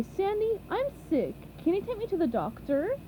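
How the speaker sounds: lightly imitated sick plea; Sandy mimics SpongeBob at speed; quick mock SpongeBob. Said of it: "than you can say".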